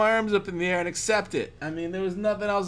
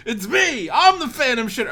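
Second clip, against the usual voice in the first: loud, higher, laughing announcement; imitated laughing confession; 5 semitones higher, 7 dB louder than usual. Fourth roommate confessing to the guys, imitated laughing. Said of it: "comes out laughing".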